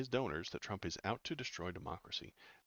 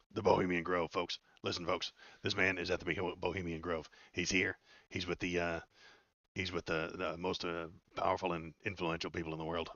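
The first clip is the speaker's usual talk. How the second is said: mock conspiracy rant; 5 dB louder than usual. Excited conspiracy rant about Bohemian Grove.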